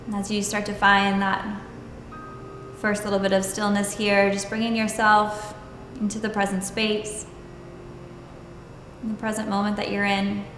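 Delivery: calm, even meditation voice with long pauses; guided meditation. Acted. Yoga teacher leading students into stillness and breath, guided meditation. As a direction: guide them unhurriedly, leaving space between phrases.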